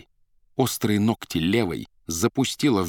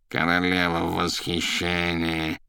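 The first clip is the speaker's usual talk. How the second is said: гнусаво; 2 semitones lower, slower than usual. Acted. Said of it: "гнусил за спиною Азазелла".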